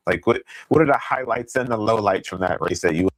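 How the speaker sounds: crackly, distorted mic audio; crackling mic. Real, not acted. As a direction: sound breaking up on the line. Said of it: "your mic is crackling again".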